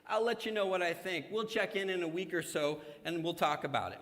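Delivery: breezy put-off reply; noncommittal. Retold or imitated. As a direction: stall politely like a busy person. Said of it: "we're like".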